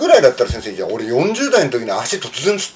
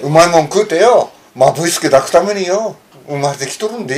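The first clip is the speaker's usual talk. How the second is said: the retake of the Hiroshima-dialect film line, said clearly into the mic but still lightly voiced; Hiroshima dialect again; 2 semitones higher than usual. Asked to repeat it in front of the mic, a careful Hiroshima-dialect recital. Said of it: "ちょっとこれ、広島弁".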